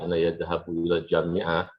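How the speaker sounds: "yadhabu" with a wrong ya- prefix after "ana"; learner's error yadhabu. Shown as a demonstration. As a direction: say "yadhabu", starting with a y-glide. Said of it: "kalau Anda waktu ngomong masih".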